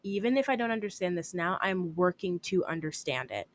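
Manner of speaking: softly spoken calm self-talk. Acted. Telling herself she's working to understand it, calm. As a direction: reassure yourself quietly and evenly. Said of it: "very calmly speak life over myself".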